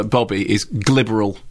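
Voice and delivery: glibberal said slowly, every syllable clear; slow down and land on glibberal; stress on glibberal. Shown as a demonstration. Critic unveiling his new word to the co-host, slow and deliberate. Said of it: "Glib-, is that new?".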